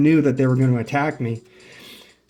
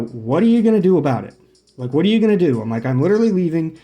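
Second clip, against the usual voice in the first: louder, higher challenge; mock challenge, pitched up and pushed; retold confrontation; 4 semitones higher, 5 dB louder, faster than usual. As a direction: re-enact squaring up to someone in an argument. Retold heated confrontation with camper.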